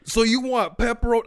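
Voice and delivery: high, loud mock questioning; reenacted incredulous check of the order; really loud. Pizza guy checking the order with customer, loud and high. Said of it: "really loud".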